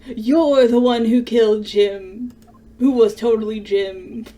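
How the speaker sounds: loud, accusing shout; loud accusing yell, cracking into crying; angry accusation. Acted. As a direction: hurl the blame at him. Accusing the killer angrily.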